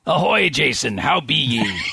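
lightly voiced pirate; a hint of an old sea dog. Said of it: "supposed to be an ice pirate".

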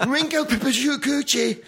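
high, slow, laughing mispronunciation; mock name butchering. Comic mimicking Joan mangling a nominee's name, high. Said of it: "she would just butcher them".

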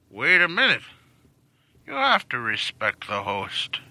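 put-on slow lecturing old man. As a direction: lecture like a grandpa. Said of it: "Stop talking like an old man".

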